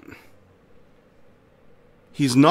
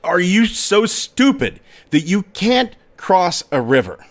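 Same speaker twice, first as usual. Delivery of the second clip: a raised, higher jeering call; mocking shout; 5 semitones higher than usual. A narrator's reading. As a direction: taunt him across the river. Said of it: "And the man shouts out".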